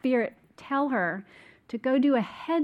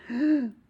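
gasp; 2 semitones higher than usual. Retold or imitated. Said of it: "like I couldn't breathe".

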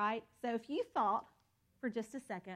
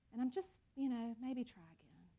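disappointed. Pretend. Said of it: "it's more disappointed".

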